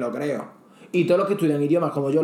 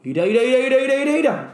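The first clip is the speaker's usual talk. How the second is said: ira ira ira chanted, rising and louder; repeated ira; 7 semitones higher, 5 dB louder, faster than usual. Shown as a demonstration. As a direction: fire off ira over and over, climbing. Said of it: "secuencias repetidas del ira".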